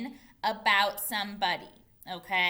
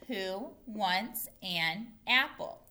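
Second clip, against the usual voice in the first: separated words, slow and deliberate; slow read-along; slower than usual. Shown as a demonstration. Teacher leads pupils in reading the question, word by word. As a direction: leave a gap after each word.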